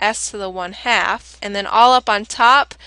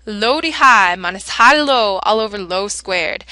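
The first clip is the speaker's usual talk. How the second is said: southern twang; 5 dB louder than usual. Shown as a demonstration. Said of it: "easy to remember if you say it in a southern twang accent".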